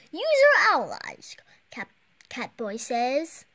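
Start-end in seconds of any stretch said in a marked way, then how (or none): 0.1-1.4 whispering. Acted. Hero whispers instructions.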